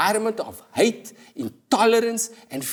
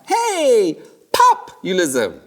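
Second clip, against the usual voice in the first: cheery greeting; 3 semitones higher, 4 dB louder, much slower than usual. Acted. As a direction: greet it like a pop star. Greeting populism as pop star.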